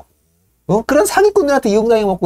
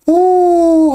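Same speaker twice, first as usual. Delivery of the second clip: birds go oh; 7 semitones higher, 4 dB louder than usual. Retold or imitated. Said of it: "하면서 새 박수".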